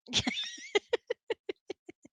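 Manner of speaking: a high, bubbling laugh; touched laugh. Real, not acted. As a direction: laugh with delight at the compliment. Touched by partner's compliment.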